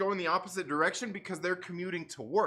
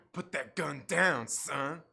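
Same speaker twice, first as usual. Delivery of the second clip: lower, slow, mock gangster warning; tough guy voice; 5 semitones lower, much slower than usual. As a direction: growl it down at him like a movie cop.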